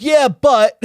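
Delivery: high excited "yeah, but"; mock exclamation. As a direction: squeak it out in mock protest. Mock reaction to church.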